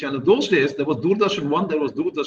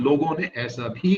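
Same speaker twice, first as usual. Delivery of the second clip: quick Hindi line read at speed; fast, reading the Hindi line; rattled off fast; much faster than usual. Retold or imitated. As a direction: race through the Hindi. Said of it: "I've also put in one line".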